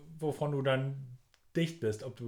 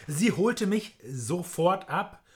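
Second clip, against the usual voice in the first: slow, higher, theatrical; dramatic reading; 5 semitones higher, 4 dB louder, much slower than usual. Acted. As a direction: read it like a drama. Dramatic reading of the fan mail.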